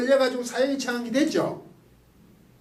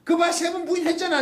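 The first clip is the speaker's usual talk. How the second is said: higher, mock told-you-so scolding; mock glaring rebuke; 6 semitones higher than usual. Jesus glaring at Peter after three denials, mock scolding. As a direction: snap it like a glaring teacher. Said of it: "그 째려보는 게 아니라는 거지".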